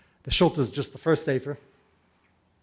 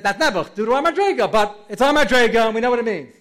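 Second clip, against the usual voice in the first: quoting with fervour; 6 semitones higher, 8 dB louder than usual. Retold or imitated. Quoting Chafetz Chaim.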